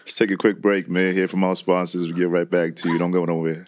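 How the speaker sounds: radio voice. Pretend. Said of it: "take us out in your radio voice".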